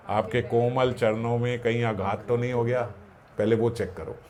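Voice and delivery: a touch of humble tenderness; gentle humble concern. Retold or imitated. The Lord speaks gently to the sage who kicked him, tender and soft. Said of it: "और वो क्या बोल रहे हैं".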